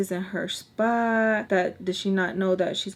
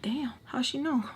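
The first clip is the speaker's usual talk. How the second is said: whispered, raised surprise; 5 semitones higher, 5 dB quieter than usual. Retold or imitated. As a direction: whisper it in shock. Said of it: "And I'm just like".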